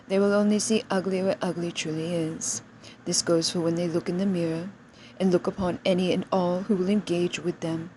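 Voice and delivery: normal talking voice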